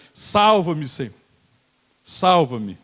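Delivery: drowning man screaming for rescue; desperate scream. Acted. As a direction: scream for your life. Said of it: "É um grito".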